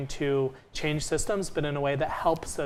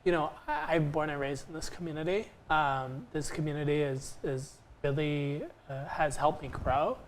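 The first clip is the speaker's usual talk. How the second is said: teary-eyed; 4 dB quieter than usual. Real, not acted. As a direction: voice softened, holding back tears. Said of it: "getting teary-eyed here".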